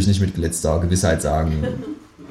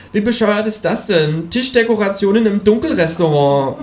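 outraged kangaroo; 13 semitones higher than usual. Acted. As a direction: sputter it high in disgust.

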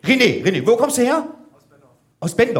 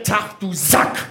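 audience answer demo; slower than usual. Shown as a demonstration. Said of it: "dann sagt ihr".

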